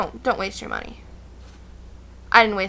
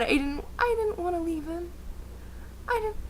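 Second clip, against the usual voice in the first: teary; 6 semitones higher, 9 dB quieter than usual. Real, not acted. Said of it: "I felt so bad".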